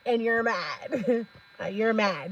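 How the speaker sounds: soft words through giggles; amused, slowed by laughter; laughing as she quotes. Real, not acted. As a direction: barely get it out for laughing.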